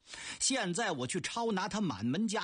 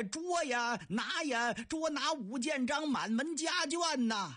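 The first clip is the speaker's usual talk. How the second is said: repeated bellow; 7 semitones higher than usual. Acted. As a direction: bawl it out once more on command. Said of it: "再喊一遍".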